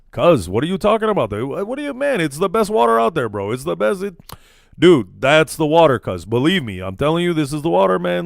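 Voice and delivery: mock-hype bro selling the water; playful put-on street slang for an Arabic friend; slangy bro talk. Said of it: "If you put me in front of an Arabic guy".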